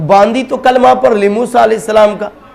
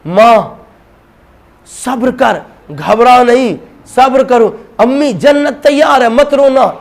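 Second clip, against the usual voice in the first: put-on child's voice; 4 semitones higher than usual. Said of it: "آواز آئی".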